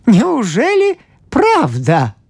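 high, slow disbelieving question; amazed. Acted. Priest wonders aloud, high and slow. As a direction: marvel at it slowly.

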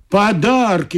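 God answers the scared father, mildly booming; thundering God. Acted. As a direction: announce the gifts like a hammed-up deity. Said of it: "громыхнул Бог".

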